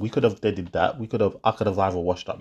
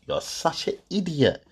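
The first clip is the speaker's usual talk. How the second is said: quoting the insult; 5 semitones higher than usual. Retold or imitated. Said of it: "that little comment there".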